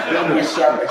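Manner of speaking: loud burst of laughter; laughing at the hips joke. Real, not acted. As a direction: laugh at his own joke.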